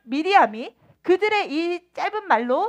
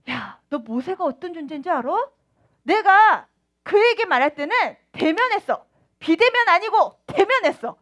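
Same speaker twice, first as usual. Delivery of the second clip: God speaking; 2 semitones higher, 5 dB louder than usual. Acted. God voiced boasting of Moses.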